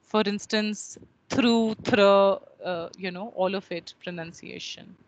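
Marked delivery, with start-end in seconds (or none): 1.3-2.4 first "through" with oo, second "through" ending in a short open vowel; contrasted pronunciations. Shown as a demonstration. Teacher giving instances of words pronounced differently, contrasted sounds. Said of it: "different words are pronounced differently".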